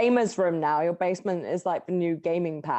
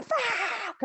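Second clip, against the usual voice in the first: high, drawn-out imitated fuck; mild mock scream; 13 semitones higher than usual. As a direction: stretch the fuck into a yelp. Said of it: "proper scream".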